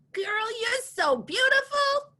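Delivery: put-on high, slow, sassy girlfriend voice; gushing compliment. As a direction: gush over her beauty. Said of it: "I'm gonna tell you".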